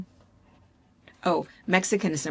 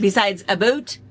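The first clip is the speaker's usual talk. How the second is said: Canadian "boot"; 6 dB louder than usual. Retold or imitated. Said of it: "and a boat".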